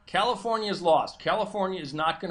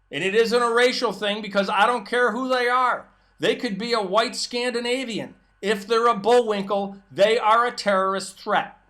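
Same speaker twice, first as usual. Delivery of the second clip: heated rant; 4 semitones higher, 5 dB louder than usual. Real, not acted.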